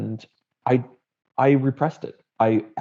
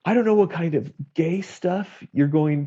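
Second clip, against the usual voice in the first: mock irate dad; 4 semitones higher than usual. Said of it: "he calls me irate".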